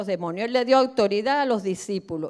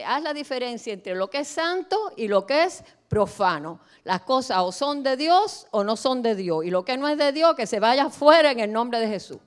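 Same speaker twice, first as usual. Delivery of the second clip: forceful preaching; 3 dB louder than usual. Acted. Quoting God, preaching force.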